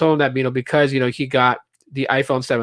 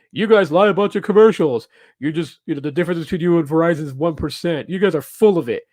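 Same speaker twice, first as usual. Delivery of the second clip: a fed-up customer calling the phone company a liar; angry customer. Retold or imitated. Irate customer complaining to the Sprint rep, sharp and raised. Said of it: "there were those who were like".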